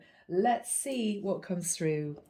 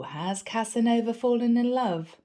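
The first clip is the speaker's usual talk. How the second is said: teasing coworker; 5 dB louder than usual. Retold or imitated. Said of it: "smiled and said".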